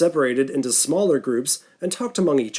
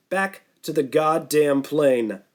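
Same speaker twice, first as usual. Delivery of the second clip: angry mocking repeat; 2 semitones higher, slower than usual. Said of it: "Sam exploded".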